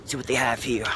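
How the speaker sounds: mock Australian nature-show host; Australian accent. Explorer introducing himself and a fellow explorer, in an Australian accent. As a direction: play an Australian wilderness explorer. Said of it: "Can you speak in an Australian accent".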